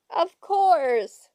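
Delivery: high, loud screamed assertion; emphatic old-lady shriek. A narrator's reading. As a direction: scream it as if insulted by the question. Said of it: "screamed Anger".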